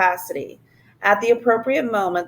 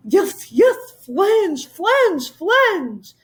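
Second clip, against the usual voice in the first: much higher, exuberant repeated shout; the king bursting with giddy joy; high-pitched whooping cry of flange; excited yell; 10 semitones higher, 3 dB louder, much slower than usual. A narrator's reading. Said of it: "the king yelled at the top of his voice".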